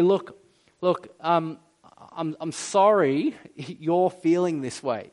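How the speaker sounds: smug mock apology with a little laugh; insincere apology. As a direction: brush off the hurt with a chuckle.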